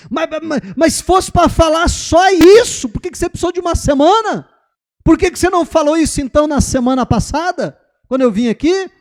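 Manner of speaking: high, loud exasperated mother; mãe braba. Retold or imitated. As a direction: lose your temper with the sage. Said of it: "Ela ficou braba". (mãe perdendo a estribeira, voz alta e aguda)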